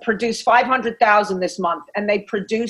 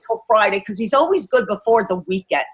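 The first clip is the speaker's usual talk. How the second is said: chicken inner voice; 3 semitones lower than usual. Retold or imitated. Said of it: "your chicken voice might say to you".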